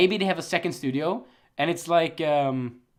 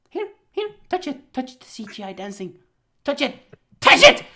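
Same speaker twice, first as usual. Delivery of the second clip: mock pushy offer; 7 semitones higher, 5 dB louder than usual. Mock studio pushing bad CGI.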